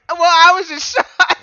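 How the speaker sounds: laughing so hard it nearly turns to tears; laughing imitation. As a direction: quote her while cracking up. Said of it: "she comes up with".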